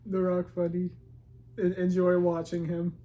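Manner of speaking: lightly done broken caveman English; caveman talk. Pretend. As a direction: drop the little words like a caveman. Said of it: "Why are you talking like a caveman?".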